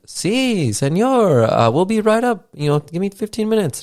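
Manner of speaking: high mock Hispanic accent, far above his own voice. Room service clerk promising the burger, mock Hispanic accent. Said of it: "That's supposed to be a Hispanic accent".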